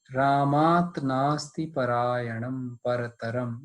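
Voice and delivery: slow, measured shloka chant; Sanskrit recitation. Shown as a demonstration. Teacher recites the Sanskrit verse for students, slow chant. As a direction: recite the verse slowly and evenly.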